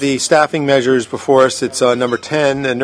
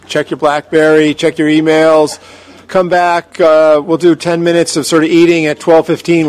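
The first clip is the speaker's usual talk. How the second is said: raised voice over the crowd; yelling across the room; 4 semitones higher, 5 dB louder than usual. Real, not acted. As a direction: call it out to everyone. Chair calling to dispersing room.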